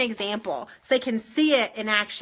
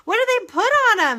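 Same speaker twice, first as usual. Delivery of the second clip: high, loud, rushed question; excited; 9 semitones higher, 6 dB louder, much faster than usual. Retold or imitated. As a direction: fire off the question eagerly. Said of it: "I was like".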